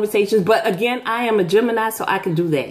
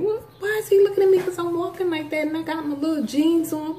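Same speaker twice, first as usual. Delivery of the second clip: inner voice; 7 semitones higher, 4 dB quieter, faster than usual. Retold or imitated. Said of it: "So I'm thinking".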